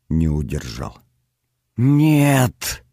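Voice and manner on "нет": desperate high shout. Acted. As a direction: scream it out in horror. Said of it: "крик вырвался".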